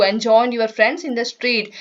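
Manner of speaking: slow, sing-song nursery rhyme reading; poem recitation. Shown as a demonstration. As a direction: recite the rhyme slowly for children. Rereading poem line.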